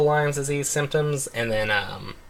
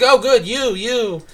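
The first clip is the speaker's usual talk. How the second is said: much higher, eager friend voice; imitating the buddy's eager friendliness; overly friendly buddy; 13 semitones higher, 5 dB louder, slower than usual. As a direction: gush like the friendliest guy in the room. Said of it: "really, like, he's always, like, friendly".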